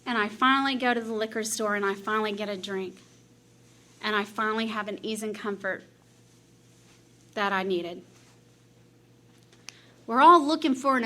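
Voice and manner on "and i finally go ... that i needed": soft, low, sinking into relief; relieved hush. Retold or imitated. Recalling the first drink, soft low relief. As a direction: let it melt out like a sigh.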